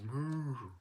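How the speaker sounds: short moo in a different voice; cow's moo. Acted. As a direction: answer Jack as the cow. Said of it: "the cow says".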